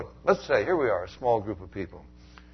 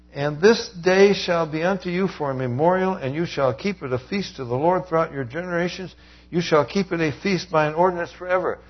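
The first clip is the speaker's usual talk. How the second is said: preaching scripture; 6 semitones higher, 5 dB louder than usual. Acted. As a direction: proclaim the verse to the congregation. Preacher reads scripture aloud at force.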